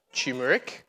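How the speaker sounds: turmeric as CHEW-muh-rick, no first R; mispronounced turmeric. Shown as a demonstration. Showing friends what it is not, turmeric said as "choomeric". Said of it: "That is not turmeric or turmeric".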